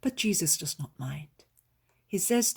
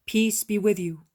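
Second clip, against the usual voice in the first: solemn greeting; 4 semitones higher, 8 dB louder than usual. A narrator's reading. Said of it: "his sweet, solemn greeting".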